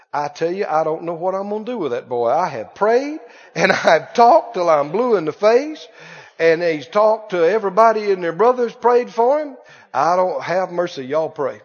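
low, tired mock lament of a parent; a discouraged mother venting about her son; weary worried parent. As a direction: sigh out the complaint.

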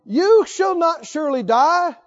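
slow, emphatic, a touch of shouting defiance; contradicting serpent. Retold or imitated. Preacher voicing the serpent defying God, scornful. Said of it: "Is that respectful or disrespectful?".

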